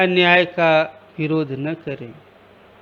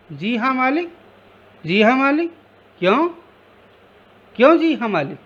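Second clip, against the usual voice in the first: higher, sputtering mockery of जी हाँ, मालिक; angry stammering echo; 7 semitones higher, much faster than usual. A narrator's reading. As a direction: master mocks the maid's yes-sir in a higher angry sputter. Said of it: "गुस्से से तुतलाने लगता है".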